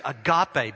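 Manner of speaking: agape said as a-GAH-pay, three syllables, stress on the middle; agape as a-GAH-pay, not the English word; Greek pronunciation. Shown as a demonstration. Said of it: "we say it just like that".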